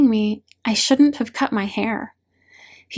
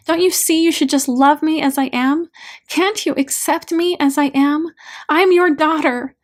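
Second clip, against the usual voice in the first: higher, pleading and angry; anguished outburst; 5 semitones higher, 3 dB louder than usual. Acted. Daughter saying everything she held back to dad, anguished and angry. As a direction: pour out held-back hurt in a raised, higher voice.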